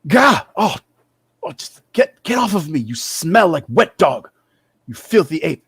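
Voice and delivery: startled high yelp settling into insults; trembling, indignant outburst. Acted. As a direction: recoil with a high-pitched, flustered protest. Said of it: "he kinda trembles and he's like".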